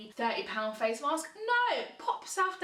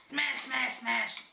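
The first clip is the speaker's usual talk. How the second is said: slug lady voice; much slower than usual. Retold or imitated. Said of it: "I sounded like the slug lady from Monsters Inc".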